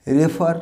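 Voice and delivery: রেফার with an "e" first vowel, "reh-FAAR"; mispronounced রেফার. Shown as a demonstration. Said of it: "না, this is not refer".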